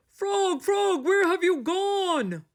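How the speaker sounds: high, slow, pleading search; desperate call. A narrator's reading. Toad calls for lost Frog in the dark, desperate.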